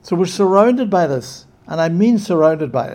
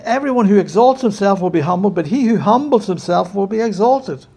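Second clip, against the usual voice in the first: forceful scripture quote; 4 semitones higher, 4 dB louder than usual. Acted. Quoting Jesus with force.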